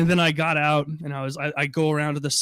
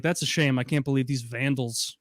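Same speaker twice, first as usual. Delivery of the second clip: mock-innocent manager. Manager covering for the scratch in mock innocence. Manager mocks vandals excuse.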